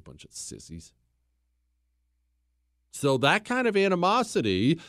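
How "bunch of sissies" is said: muttered aside. Real, not acted.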